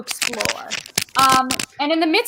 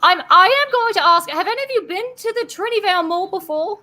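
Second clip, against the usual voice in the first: lightly voiced dwarven constable, a bit higher; a weary guard asking the party a question; a hint of a polite mall cop; Barnabas; 4 semitones higher than usual.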